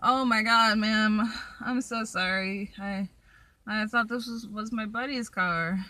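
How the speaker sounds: startled apology in a mock Southern accent. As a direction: put on a teenage guy's Southern accent. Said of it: "he has this really southern accent".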